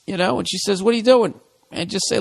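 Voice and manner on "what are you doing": higher, louder startled question; alarmed girlfriend. Acted. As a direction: snap it out in alarm.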